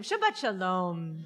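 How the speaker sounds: slow, drawn-out Shabbat shalom. Real, not acted. Rabbi retrying the greeting with the congregation, slowly. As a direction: savor each word of the greeting. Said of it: "Let's try one more time".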